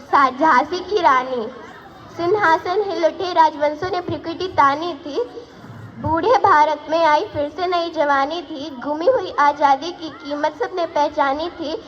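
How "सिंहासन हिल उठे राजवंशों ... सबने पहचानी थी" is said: rhythmic ballad declaimed line by line; heroic poem recitation. Acted. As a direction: recite in a driving, steady metre. (वीर रस का लयबद्ध कविता पाठ)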